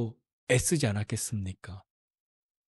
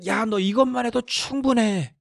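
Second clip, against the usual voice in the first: higher, slow, kindly assurance; God telling Moses it's enough; gentle God; 7 semitones higher than usual. Retold or imitated. Preacher voices God gently.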